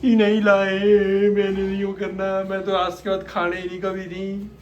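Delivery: a light sing-song whine, mocking her tantrum; husband teasing his wife's gulab jamun tantrum; mock whiny wife. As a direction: imitate her sulking, half-singing. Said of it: "इतना रो पिट के गई".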